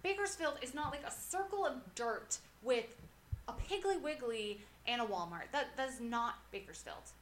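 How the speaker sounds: loud, emphatic comic rant; indignant rant. Real, not acted. Podcaster defending their hometown against a TV show, indignant rant. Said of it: "So that's my rant".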